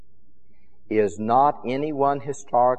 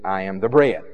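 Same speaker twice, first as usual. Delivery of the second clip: low-pitched, with the weight landing on "bread"; stress on bread; 7 semitones lower than usual. Shown as a demonstration. Preacher explaining Greek word emphasis, stress on "bread". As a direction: lightly pass "I am", then hit "bread". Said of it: "wanted to emphasize the bread".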